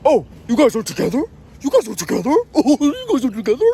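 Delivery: high, loud goofy imitation of sudden realization; mock the officer's dawning surprise, laughing by the end. Agent learning the family is together, mock surprised voice.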